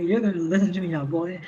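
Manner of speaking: fast, lightly voiced bossy scolding; a touch of a bossy fairy. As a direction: order him around, mock stern. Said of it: "she talks to you like a moron".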